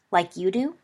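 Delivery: mildly sharp retort; snapped. Acted. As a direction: snap back with a touch of irritation. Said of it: "snapped Sirius".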